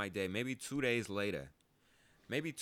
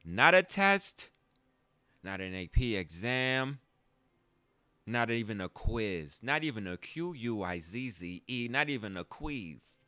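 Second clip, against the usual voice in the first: stern principal; 3 dB louder than usual. Retold or imitated. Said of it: "He said".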